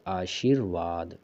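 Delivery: आशीर्वाद slow and low, aa-sheer-vaad; r before va. Shown as a demonstration. Teacher explaining the reph, slow आशीर्वाद. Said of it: "वा से पहले बोला जाएगा".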